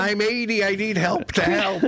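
put-on weak old man. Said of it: "eighty-year-old helper".

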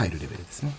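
mumbled under the breath; quiet. Shown as a demonstration. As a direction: say it low and soft.

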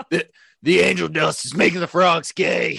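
loud, high ranting Alex Jones; Alex Jones impression. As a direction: rant like a conspiracy radio host. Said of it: "no A J impressions".

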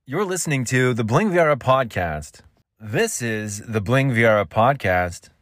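punchy podcast ident, swooping stresses; announcer inflection. Shown as a demonstration. Podcaster trying out his segment reminder, showy announcer inflection. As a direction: draw out "Bling Viera podcast" like an announcer. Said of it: "You put some different inflection".

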